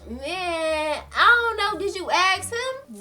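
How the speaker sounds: high, drawn-out whiny protest; mock exasperation. Retold evasive friend on phone.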